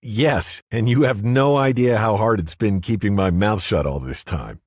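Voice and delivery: lightly voiced woman, pleased to finally speak; Cynthia's voice. A narrator's reading. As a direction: voice her with a playful edge.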